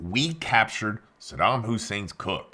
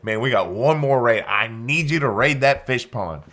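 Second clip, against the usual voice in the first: louder, pressing retold plea; urgent plea; 6 dB louder than usual. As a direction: push hard for one more raid. Pleading with Bam Bam.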